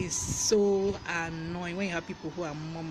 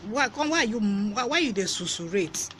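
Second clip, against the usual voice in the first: higher-pitched mock confrontation; mock challenge; 4 semitones higher, 4 dB louder than usual. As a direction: playfully demand an explanation from a murmurer. Acts out challenging someone who murmurs.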